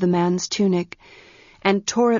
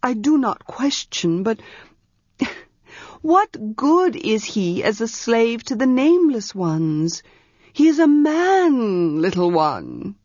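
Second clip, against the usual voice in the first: Manon's pleading; 3 semitones higher than usual. Acted. Breathless old servant Manon protests to his young mistress.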